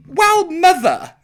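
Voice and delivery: high, loud fake crying; mock wail. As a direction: wail it like a wounded child. Mock wail at mother's comment.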